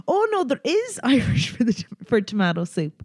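high, bright mock-surprised retort; imitating an amused coworker correcting her; quoting coworker. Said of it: "And she was like".

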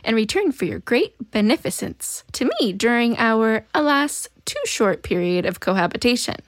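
lightly hammed-up formal seduction; mock-formal, theatrical pleading; alien's seductive voice. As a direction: read it as an alien's flowery plea. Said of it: "trying to seduce him from the alien's voice".

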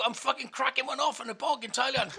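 loud brag. Retold or imitated. Brag told down the phone.

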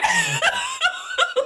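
high shrieking laugh. Real, not acted. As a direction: burst into a squealing laugh. Laughing at young Cage photo.

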